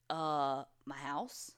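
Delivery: lightly voiced unsure kid; kid response. Caller answering the dispatcher, like an unsure kid. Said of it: "in such a kid response".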